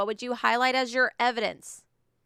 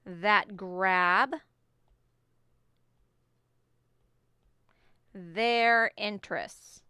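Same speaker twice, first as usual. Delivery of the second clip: dictating; slower than usual. Shown as a demonstration. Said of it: "I'm doing exact evidence".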